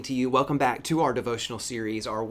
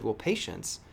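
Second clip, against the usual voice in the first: put-on gentle explanation to child; 4 semitones lower, slower than usual. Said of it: "I said".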